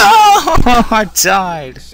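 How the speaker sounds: loud, high cry of defeat; anguished yell. Real, not acted. Player whose character just died, loud high wail. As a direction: wail it at the screen.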